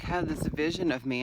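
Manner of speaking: ordinary talk, nothing marked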